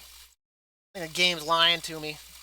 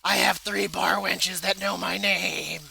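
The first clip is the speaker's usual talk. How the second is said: mock smug gamer; slower than usual.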